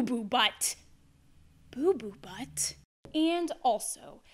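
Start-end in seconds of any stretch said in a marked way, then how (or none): 1.7-2.7 incredulous. Acted. Incredulous repeat of silly name.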